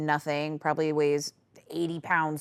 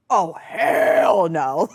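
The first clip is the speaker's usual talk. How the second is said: shouted refusal; 7 dB louder, much slower than usual. Retold or imitated. Standing up to aggressor.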